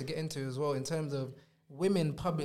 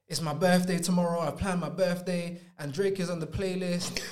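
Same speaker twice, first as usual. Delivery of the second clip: hammed-up tearful complaint, building louder; mock crying rant; 6 dB louder than usual. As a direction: imitate an upset girlfriend spiralling into a loud wail. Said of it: "Then she starts crying".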